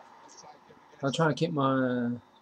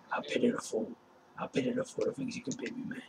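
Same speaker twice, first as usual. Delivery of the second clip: mock pitying voice; 9 semitones higher, 5 dB quieter than usual. Mocking repeat of pitiful line.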